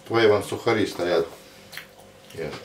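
chewing while talking; speaking around food; mouth full. Real, not acted. Seen 0: bites wrap just before, cheeks full, jaw working while speaking.

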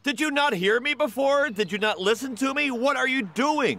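angry scolding. Acted. Teacher catching boy mocking classmate, outraged scolding. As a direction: call out sharply, then slow down on the last question.

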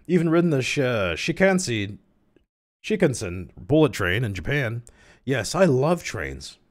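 high, lilting put-on character voice; high-pitched train enthusiast; eager train buff. Voices train buff's lines.

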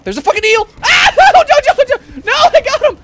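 very high shrieks of panic; terrified screaming. Real, not acted. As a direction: scream at the eel in real fright. Eel attack, screaming.

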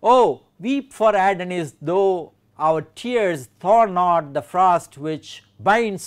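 measured, emphatic verse reading; poem recitation. Shown as a demonstration. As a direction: declaim the elegy in deliberate, weighted phrases.

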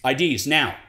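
flatly demanding ID; mild stern door check; breaking rapport bouncer. Shown as a demonstration. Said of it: "a bouncer at a club".

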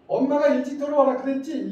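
put-on mother snapping high and loud at a late child; loud angry mother scolding a child who came home late. Shown as a demonstration. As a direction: demo of yelling at the kid. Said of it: "이거는 화 내는 거야".

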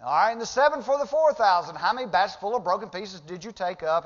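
high, loud, driving question; Jesus pressing. Acted. Jesus quizzing disciples about baskets, loud and high. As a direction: hammer the point home. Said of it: "he said".

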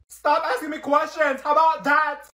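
loud, high outburst; exasperated shout. Acted. Girl overwhelmed by questions, shouting. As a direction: scream it to end the questions.

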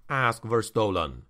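plain reading voice

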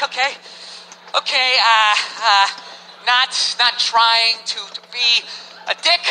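slow, halting diplomacy; tactful hesitation. Acted. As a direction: pick each word carefully to avoid offence. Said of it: "just have to sit there going like".

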